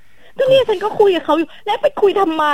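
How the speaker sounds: husband's retort. Retold or imitated.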